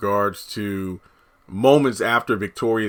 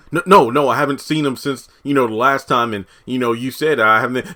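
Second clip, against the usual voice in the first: freaked-out denial; 2 semitones higher, 4 dB louder than usual. Retold or imitated. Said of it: "Dale's, like, freaked out".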